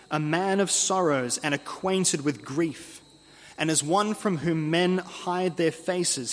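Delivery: slow, measured Bible reading; solemn scripture reading. Acted. Preacher reading Isaiah's suffering servant to congregation, solemn. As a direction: read it out slowly, phrase by weighted phrase. Reads Isaiah passage aloud.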